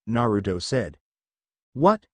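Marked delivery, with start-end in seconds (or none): 1.7-2.1 higher-pitched startling call; narrated shout. A narrator's reading. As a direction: call out one sharp question, raised in pitch. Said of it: "Zabuza shouted from the mist".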